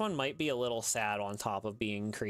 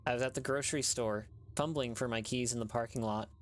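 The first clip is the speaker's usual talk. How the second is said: story narration. A narrator's reading. Narrator reading a creepy tale to listeners, measured storytelling. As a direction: draw listeners into a sad ghost story.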